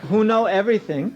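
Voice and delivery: amused rising rant, laughing it off; building laughing ridicule. Real, not acted. Teacher ridiculing the idea, laughing.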